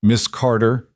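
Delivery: speaking through hands over face; words muffled behind palms. Acted. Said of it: "muffled through his palms".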